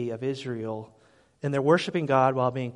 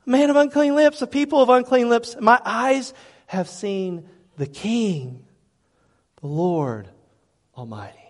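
Isaiah's lament; 7 semitones higher, 8 dB louder than usual. Acted. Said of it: "Isaiah's words repeated".

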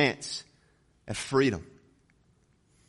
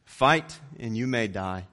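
William Wallace rallying speech; 4 dB louder than usual. Retold or imitated. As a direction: rouse the troops before battle, building. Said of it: "William Wallace says".

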